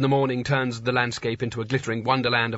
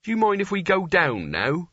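weakly; 5 semitones higher than usual. A narrator's reading. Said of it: "said Nigel weakly".

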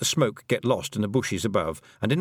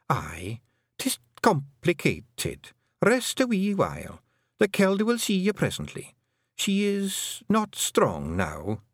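high, slow Scots character voice; Fionn; 9 semitones higher, slower than usual. A narrator's reading. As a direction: explain slowly and high in Scots. Fionn explains in dialect.

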